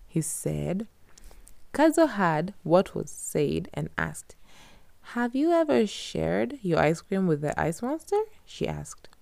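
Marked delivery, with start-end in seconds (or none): 5.2-8.2 put-on girl voice. Kadzo asks.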